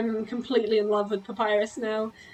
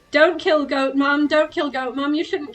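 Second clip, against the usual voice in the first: pleading friend; 4 semitones higher, 3 dB louder than usual. Retold or imitated. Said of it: "he at the beginning kept saying".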